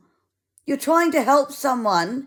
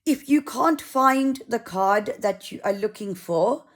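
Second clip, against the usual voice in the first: a mild attempt at a South African accent; half-hearted South African accent impression; lightly mimicked South African volunteer. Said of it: "I'll try and do the accent".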